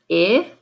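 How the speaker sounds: I as the short "ih" in win; isolated vowel sound. Shown as a demonstration. Teacher naming the vowel to swap, I said as short "ih". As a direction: say I as a lone "ih", not "eye". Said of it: "change the vowel sound".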